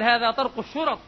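loud retort aimed at the knocker outside. Retold or imitated. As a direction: say it loud enough to carry through the door. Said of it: "وقال حتى أسمعها".

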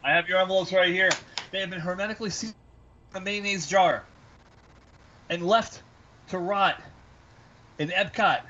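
theatrical showman delivery; haunted house actor. Acted. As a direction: spin a mysterious buildup. Presenting sealed envelopes theatrically.

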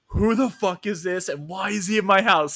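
hammed-up stepdad rage; mock angry stepdad. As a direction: play the furious stepdad throwing him out. Stepdad yelling at stranger.

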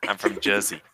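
lightly put-on New Jersey accent. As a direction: claim your home in a mild mock Jersey accent. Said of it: "how do you think they say that".

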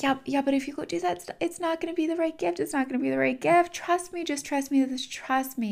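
high, quick, insistent coaxing; acted-out high-pitched persuading; urgent pleading. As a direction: plead in a rush of repeated assurances. Universe pleading with gift refuser.

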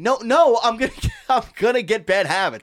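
high, loud mock parent. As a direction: ham up a lax parent. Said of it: "the concept of".

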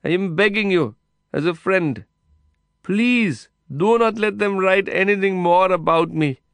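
high, loud begging. A narrator's reading. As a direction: beg him over the noise. Heated exchange through prison wire.

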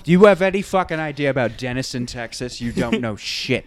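playfully furious pilot rant; imitating the pilot ranting at the president; mock ranting Sully. Riffing as angry Sully.

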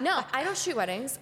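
laughing through the no; real laugh while denying to a patronizing man; laughing denial. Real, not acted. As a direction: shake it off with a laugh. Laugh heard.

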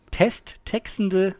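very slow, word by word; langsam. Shown as a demonstration. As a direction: sound it out carefully. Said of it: "erst nochmal langsam". (ganz langsam vorgelesen)

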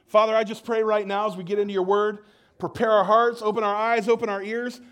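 fervent, rising then softening prayer; earnest prayer. Real, not acted. Pastor prays over the congregation before the sermon, fervent then hushed. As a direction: pray over the listeners' hearts.

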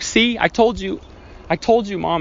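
put-on high-pitched kid on the verge of tears; mock-tearful I-told-you-so, pitched high; imitated tearful whine. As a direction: protest to mom like a tearful child. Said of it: "and I'm crying".

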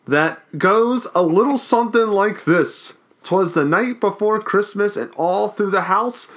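high, slow, hammed-up ghoulish host; dramatic Crypt Keeper reading. Host reading the Crypt Keeper's intro to his cohost, hammed-up and slow. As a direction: ham up the spooky holiday greeting, drawn out. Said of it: "dramatic reading".

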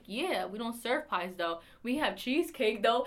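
slow deadpan pizzeria reply. Retold or imitated. Pizzeria worker to a caller asking for a pie, deadpan. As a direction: drag out the polite refusal. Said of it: "I'm like".

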